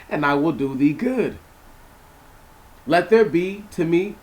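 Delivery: measured, solemn Bible reading with weight on God and thou; scripture reading. Acted. Preacher rereading Jacob's prayer to the congregation, solemn and emphatic. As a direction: read the prayer like holy writ, steady and grave.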